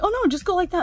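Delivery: high, loud mock brush-off; retold dismissive reply. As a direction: imitate him breezily waving the problem away. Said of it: "He's like".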